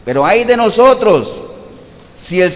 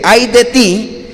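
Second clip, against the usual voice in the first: mild threat; 3 semitones higher, 3 dB louder, much slower than usual. Shown as a demonstration. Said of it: "es una expresión con la que se amenaza".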